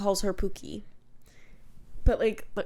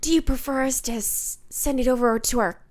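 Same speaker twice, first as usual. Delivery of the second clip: Jennifer Coolidge impression; 3 semitones higher than usual. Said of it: "like, Jennifer Coolidge?".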